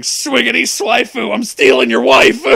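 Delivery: loud high taunting yell while running off. A narrator's reading. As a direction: shout it out as you run away, high and loud. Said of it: "running away while yelling".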